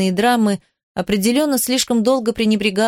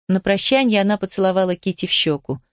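usual speaking voice

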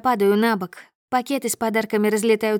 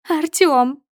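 relieved cry; 6 semitones higher, 5 dB louder than usual. A narrator's reading.

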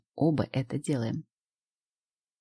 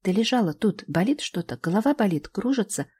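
panicked mother; 6 semitones higher, 3 dB louder than usual. Acted. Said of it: "Голос Гали дрожит".

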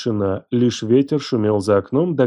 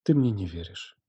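much softer, flat resignation; quiet statement; 3 semitones lower, 8 dB quieter than usual. Acted. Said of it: "тихо констатировала она".

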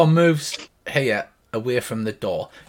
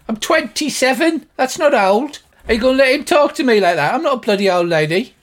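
high, loud, outraged woman's voice; indignant shouting; 11 semitones higher, 7 dB louder than usual. Acted. Healer objects to being called old, high indignant shout. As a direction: shout it high, deeply offended at the insult. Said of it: "And she shouts".

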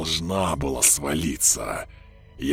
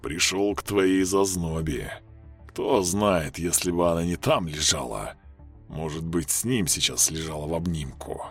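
mocking; 4 semitones lower than usual. A narrator's reading. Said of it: "Издевался голос".

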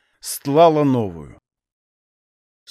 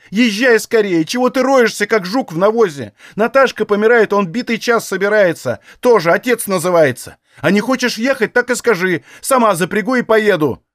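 high, loud angry rebuke; tearful scolding; 6 semitones higher, 3 dB louder than usual. Acted. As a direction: daughter berating her father through tears. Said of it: "со слезами напустилась на отца".

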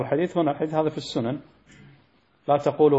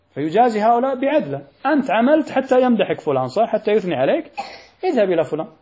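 raised, higher voice hammering the point; forceful preaching; 5 semitones higher, 4 dB louder than usual. Real, not acted. Preacher confronting the one who worked for praise, forceful and raised. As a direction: call out the show-off with force.

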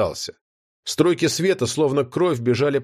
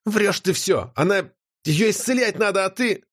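put-on higher girl's voice, stunned and disbelieving; stunned young girl; 7 semitones higher than usual. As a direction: she can't believe her eyes. Notti accusing the guardian.

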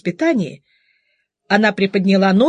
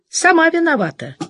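mildly cross; 7 semitones higher than usual. A narrator's reading. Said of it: "сердито подумала Настя".

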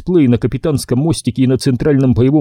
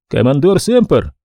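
strange alien voice. Acted. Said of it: "Голос Лилиатоны ... звучал очень странно".

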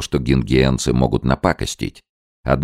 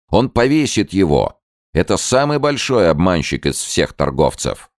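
shouting; 7 semitones higher than usual. A narrator's reading. Villagers denounce the trader, high shout. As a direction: yell it to the whole crowd. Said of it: "закричали столпившиеся гелики".

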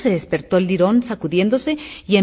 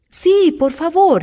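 high, drawn-out plea; eager, louder storybook pleading; imploring; 9 semitones higher, 5 dB louder, much slower than usual. A narrator's reading. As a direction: beg with long stretched vowels. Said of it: "imploró Alicia".

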